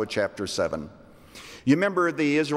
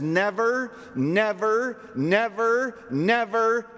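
each "never" higher than the one before; building repeated never; 9 semitones higher, slower than usual. Shown as a demonstration. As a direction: climb with every "never". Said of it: "Five times God says".

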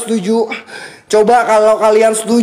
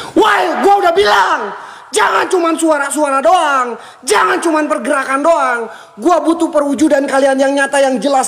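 defiant shout; 5 semitones higher than usual. Real, not acted. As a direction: taunt the spirits to show themselves. Challenges the ghosts angrily. (tantangan lantang ke para setan)

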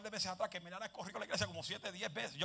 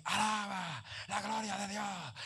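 mock praise; 2 semitones higher, 4 dB louder, slower than usual. Imitating someone praising in church.

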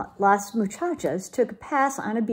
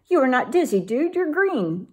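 yipping doggies; 5 semitones higher than usual. Acted. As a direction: yip it like little dogs. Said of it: "yipped the doggies".

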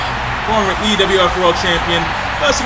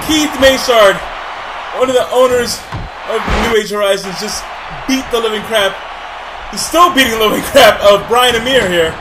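excited shout. Real, not acted. Commentator yells over the beatdown.

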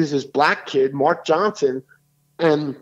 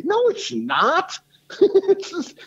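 emphatic denial; 13 semitones higher, much slower than usual. Real, not acted. Rebutting the liberals' slavery claim.

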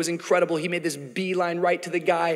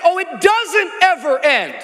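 exclaiming Jesus; 11 semitones higher, 8 dB louder than usual. Acted. Jesus answers, shout heard.

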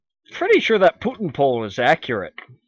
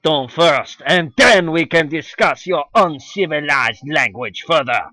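put-on French accent; slower than usual. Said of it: "I cannot do a French accent".

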